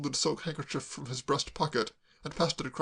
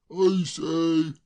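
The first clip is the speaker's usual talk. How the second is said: lightly fluted call, a bit higher and louder; 3 semitones higher, 6 dB louder than usual. Acted. Braddock calling down the stairs, fluting. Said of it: "fluted Mister Braddock once more".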